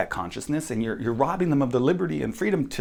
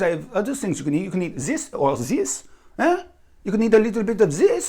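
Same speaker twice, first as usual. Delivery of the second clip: higher, louder, sugary-polite then snapping into a yell; mock French host; 5 semitones higher, 4 dB louder than usual. French host mocking the picky American, sweet then furious. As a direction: play the gracious host who turns nasty. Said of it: "The French person is gonna look at me and go".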